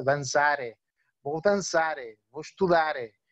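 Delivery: danzare and estudare with a clear extra e after the r; Portugal-style added final e. Shown as a demonstration. Teacher mimicking how they add a vowel in Portugal. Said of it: "añadirle una vocal de relleno, una E".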